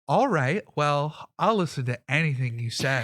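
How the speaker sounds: lightly hammed-up eager compliance; attracted, flirty guard. Smitten guard giving in to an intimidating stranger, lightly flirty. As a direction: play a guard who is suddenly smitten. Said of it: "he is suddenly attracted to".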